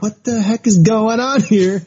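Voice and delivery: lightly voiced indignant statesman caught off guard; Churchill. Churchill reacting to the man in his bathroom, mock-startled. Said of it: "Churchill's like".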